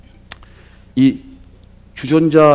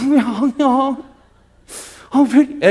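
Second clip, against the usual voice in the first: "왜 안 와?" asked higher in a sweet, pouting whine; cute coaxing; 10 semitones higher, much slower than usual. Shown as a demonstration. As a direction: pout "왜 안 와?" playfully, not angrily. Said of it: "애교를 부려야 되잖아". (애교 부리듯 "왜 안 와?")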